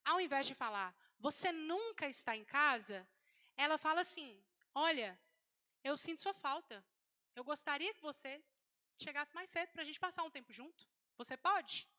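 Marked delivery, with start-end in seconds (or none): 1.2-3.1 slow, emphatic mock reproach; rigid accusation. Wife confronts absent husband, rigid and accusing. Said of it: "Você está falando de forma rígida". 4.7-11.9 measured, gentle appeal in short phrases; respectful feminine request. Acted. Wife asks husband for time together, respectfully. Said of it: "Como que uma mulher que respeita fala?".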